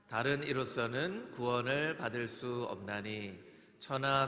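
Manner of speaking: measured memory-verse recital; scripture recitation. Real, not acted. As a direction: recite evenly, phrase by phrase.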